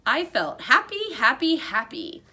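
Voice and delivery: bubbling over with glee; overjoyed. A narrator's reading. Hamster delighted the party is coming.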